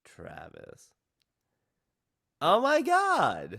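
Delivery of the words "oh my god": much higher and louder, drawn-out slow gasp of delight; a thrilled, stretched-out oh my god; excited recognition. Real, not acted. Recognizes beloved childhood character.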